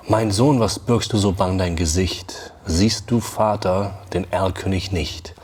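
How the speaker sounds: measured galloping recital in German; poem recitation. Acted. Teacher reciting Goethe's poem to the class, rhythmic and measured. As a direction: recite it to the beat of a riding horse.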